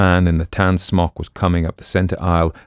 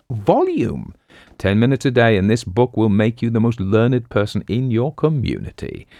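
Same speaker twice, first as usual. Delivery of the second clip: book-selling pitchman; 4 semitones higher than usual. Acted. Book hawker to a fairground audience, high emphatic pitch. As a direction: sell it to the crowd like a street hawker.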